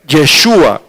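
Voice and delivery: "Yeshua" set apart with stressed SHU; Hebrew pronunciation demo. Shown as a demonstration. Preacher naming the Hebrew origin of Jesús, "Yeshua" as careful demo. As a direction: pronounce "Yeshua" deliberately, falling at the end. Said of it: "se originó primero en el hebreo".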